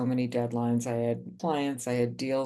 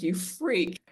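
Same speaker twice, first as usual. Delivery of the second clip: berserk insult; 5 semitones higher than usual. Retold or imitated. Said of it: "I went berserk".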